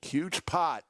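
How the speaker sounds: hushed broadcast whisper. Real, not acted. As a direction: breathe it like a secret. Commentator hushes over big pot.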